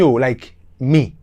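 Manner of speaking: ordinary talk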